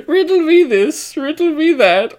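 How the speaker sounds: high, slow hammy Riddler taunt; sing-song villain tease, way up high; mustache twirling villain. Retold or imitated. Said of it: "a mustache twirling asshole".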